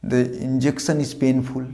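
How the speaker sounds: deliberate teacher's model reading; slow model sentence. Shown as a demonstration. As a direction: read very slowly, word by word. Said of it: "বাক্য হিসেবে বলতে পারি".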